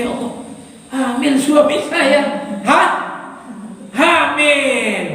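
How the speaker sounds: acted disbelief, words drawn out; shocked wife. Wife learning her husband is pregnant, shocked. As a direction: gasp it out as an astonished wife. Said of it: "Istrinya terkejut juga".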